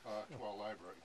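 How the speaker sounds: loud laughing vow reading; can barely read through the laughter; shouting through laughter at the joke; laughing loudly. Real, not acted.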